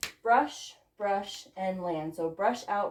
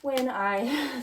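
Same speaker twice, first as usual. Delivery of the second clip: out of breath. Real, not acted. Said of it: "sorry, I'm out of breath".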